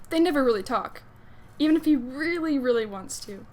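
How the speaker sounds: swooping, expressive read-aloud; lively fan fiction reading; animated story narration. A narrator's reading. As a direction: narrate a crush story with playful emphasis.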